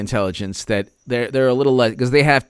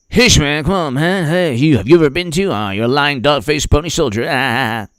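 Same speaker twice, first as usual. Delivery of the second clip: imitated flustered president; 3 semitones higher than usual. Mimics Biden flustered, insulting a reporter.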